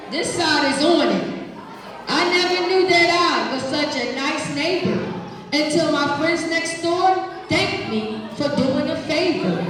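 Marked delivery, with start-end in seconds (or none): 2.1-9.6 put-on expressive read-aloud to kids; reading to children. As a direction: read it warmly to the class. Reading picture book aloud.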